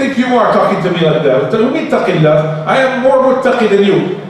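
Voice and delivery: high, affronted protest with a laugh; indignant retort. Retold or imitated. Older relative scoffing at advice, indignant. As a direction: scoff at being told to fear Allah.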